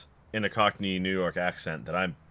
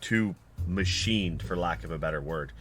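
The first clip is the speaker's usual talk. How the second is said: game master's scene setting; 4 semitones lower, 5 dB quieter than usual. A narrator's reading. Game master describes a too-perfect street, measured narration. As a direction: set an uncanny scene, pausing between phrases.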